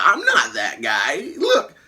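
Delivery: high, stammering panicked plea with a cracking shout; squeaky, breaking voice pleading innocence; panicked denial. Retold or imitated. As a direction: beg frantically that it isn't you. Peter panics pleading he's not Spider-Man.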